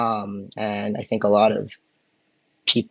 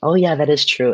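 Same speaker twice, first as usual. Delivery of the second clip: higher, louder soft feminine take; 5 semitones higher, 4 dB louder than usual. Shown as a demonstration. Teacher demos feminine wa with a put-on voice. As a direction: say it sweetly like a genteel lady. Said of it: "if I was gonna put on a voice".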